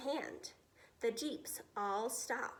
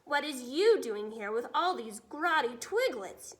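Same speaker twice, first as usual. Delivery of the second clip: louder suspicious giant; bellowed; 5 dB louder than usual. Acted. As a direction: bark at the BFG. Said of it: "he bellowed".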